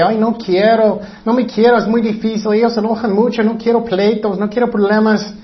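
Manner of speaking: lamento más agudo, quejándose; padre quejoso imitado. Retold or imitated. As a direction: imita a un padre que se siente culpable. (padre que no quiere disciplinar, queja aguda y leve)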